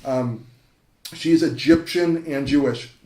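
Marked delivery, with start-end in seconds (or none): 1.1-2.9 Egyptian and Jewish both punched louder; stress on EGYPTIAN and JEWISH. Real, not acted. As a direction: give "Egyptian" and "Jewish" equal, deliberate weight. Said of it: "Emphasis on the Egyptian, emphasis on the Jewish".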